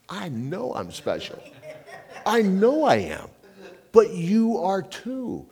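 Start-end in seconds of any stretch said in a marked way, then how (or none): 2.3-5.5 high and loud, laughing through the boast. Real, not acted. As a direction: laugh it out, slow and louder. Laughing at his own boast.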